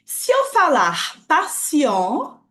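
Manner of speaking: "patient" said slowly, with no final t, as "pa-sian"; silent t. Shown as a demonstration. Teacher explaining the masculine form, slow. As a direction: drop the t in "patient". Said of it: "sem pronunciar o T".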